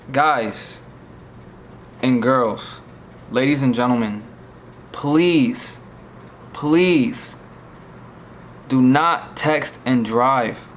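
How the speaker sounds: slow, sincere appeal with long pauses; solemn, measured plea to listeners; earnest plea. Real, not acted. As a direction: plead with them, weighing each phrase.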